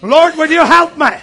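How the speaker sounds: loud mock cry for help to God; desperate tearful plea. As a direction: cry out to heaven as a distraught mother, imitated. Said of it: "she starts crying".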